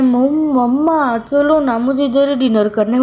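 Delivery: put-on whiny crying child. Child begging mother to stay for dinner, tearful whine. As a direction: plead like a little kid on the verge of tears. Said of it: "वो फिर से मतलब रोने लगा था".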